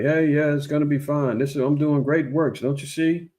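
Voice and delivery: a hint of a boastful president; lightly voiced Trump. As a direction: lightly brag that everything is fine. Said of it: "Donald Trump telling everybody".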